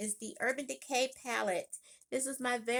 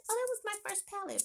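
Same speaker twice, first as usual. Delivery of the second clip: mock sentimental; 11 semitones higher than usual. Recalls sentimental thought.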